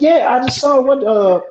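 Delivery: high, rattled retold exclamation; stunned retelling. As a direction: blurt it out in shock. Retelling shock to friend.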